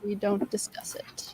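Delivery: whispered, barely voiced aside; hushed whisper. Real, not acted. Closing talk of an avoided name, hushed whisper. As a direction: whisper it as off-limits. Hushing a forbidden name topic.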